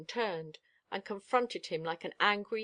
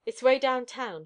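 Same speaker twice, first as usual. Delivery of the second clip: curt and loud; short; 4 semitones higher, 6 dB louder than usual. A narrator's reading. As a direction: clip it off, impatient. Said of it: "he said shortly".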